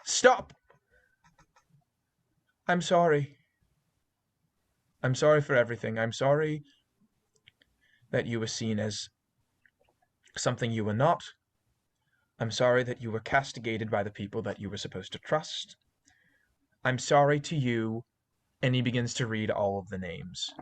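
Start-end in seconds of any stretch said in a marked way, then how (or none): 0.0-0.5 sharp, high shouted command; professor calling out. Acted. Professor halts the creature as it closes its maw, shouting. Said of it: "you hear the professor's voice say". 2.7-18.0 measured speech with long pauses; lightly acted solemn apology, phrase by phrase; apologising professor. Professor apologises to the creature, gravely and haltingly. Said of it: "you hear the professor's voice say".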